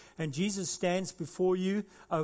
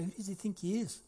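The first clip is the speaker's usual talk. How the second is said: grumbling; 3 semitones higher than usual. Acted. Preacher voicing grumbling Jews about Jesus, scornful. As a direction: scoff under your breath. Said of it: "some of the Jews start grumbling and say".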